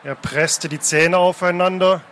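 measured, dramatic reading aloud; story narration. A narrator's reading. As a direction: narrate the sea chase with deliberate pauses. Reads a novel scene aloud.

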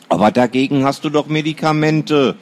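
a sister teasing her brother, feigned innocence; innocent. Acted. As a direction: play the innocent little sister. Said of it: "sagte sie ganz unschuldig".

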